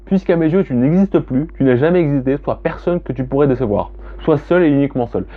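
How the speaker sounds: the final verdict, recited with weight; poem reading. Acted. Reading the poem's ending to her audience, solemn recital. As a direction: close the poem coldly and deliberately.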